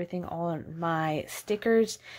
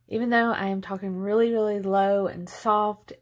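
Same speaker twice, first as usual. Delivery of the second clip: talking through a numb mouth; 3 dB louder than usual. Real, not acted. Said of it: "half my face is numb".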